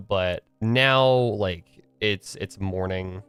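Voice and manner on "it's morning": normal talking voice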